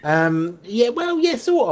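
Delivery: high giggling reply; laughing, high-pitched. Real, not acted. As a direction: answer through the laughter. Laughing after being teased.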